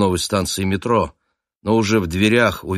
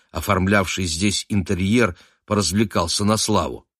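plain reading voice

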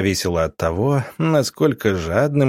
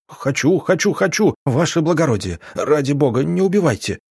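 desperate begging; 6 semitones higher than usual. Acted. Terrified man begs for his life.

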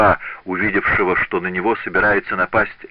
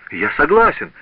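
loud, higher cry of surrender; frightened shout; 7 semitones higher, 4 dB louder than usual. A narrator's reading. Apprentice yielding to the dagger-throwing master, shouting in fear. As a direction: blurt it out in terror. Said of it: "закричал Паголо".

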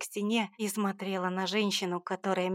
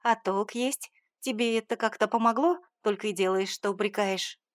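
angry mother's tirade; indignant mother; 2 semitones higher, 4 dB louder than usual. Acted. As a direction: keep hammering her with reproach. Mother continues scolding.

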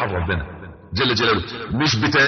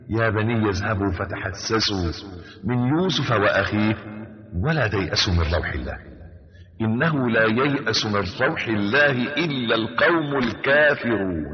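slow, measured Quranic chanting; unhurried tajweed-style recitation of scripture; 2 semitones lower than usual. Acted. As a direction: intone the verse slowly and reverently. Recites Quran verse in sermon.

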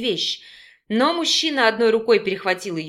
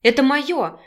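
cross, louder demand; woman demanding her pills back, displeased and louder; 2 semitones higher, 4 dB louder, slower than usual. A narrator's reading. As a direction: snap back to get it returned. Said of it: "недовольно потребовала Юливия".

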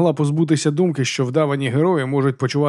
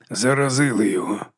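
growled. Acted. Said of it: "прогарчав Яків".

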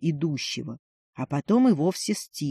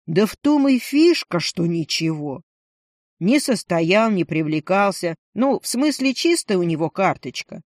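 loud phone talk. Acted. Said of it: "Ленчик говорил громко".

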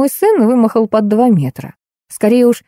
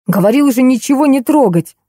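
higher, sharp bark stressing не; 6 semitones higher than usual. Acted. Son scolding the others for touching the plug, barked. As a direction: snap it out at him, hitting не. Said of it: "рявкнул Аркадий".

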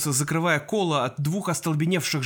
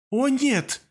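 gasped; 9 semitones higher than usual. A narrator's reading. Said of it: "выдохнула Анастасия".

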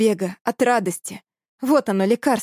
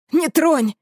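shrill sudden yell; sharp cry; 6 semitones higher, 3 dB louder than usual. Acted. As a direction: cry out high and loud. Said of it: "взвился Южик".

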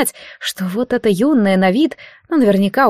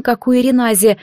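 plain reading voice

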